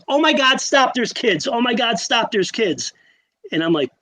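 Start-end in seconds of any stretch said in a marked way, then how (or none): 0.1-2.9 higher, urgent mock alarm; retold panic. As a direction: imitate the wife's panic lightly. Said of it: "she looks at me and she goes".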